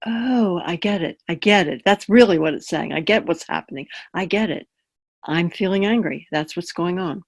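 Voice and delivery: mild dawning realization, unemotional; understated, curious inner commentary. Shown as a demonstration. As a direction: notice your own feeling with interest. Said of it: "It involves having a curious voice".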